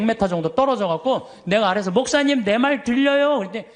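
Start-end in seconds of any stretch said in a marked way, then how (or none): 1.9-3.4 calling out. Retold or imitated. Calling from a hundred metres away.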